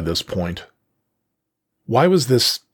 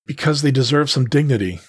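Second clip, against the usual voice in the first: wavering voice; 4 semitones higher than usual. Acted. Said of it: "with a wavering voice".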